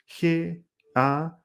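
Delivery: very slow, letter by letter; slow, separated letters of an acronym; spelling out. Shown as a demonstration. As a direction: spell it out with long gaps between letters.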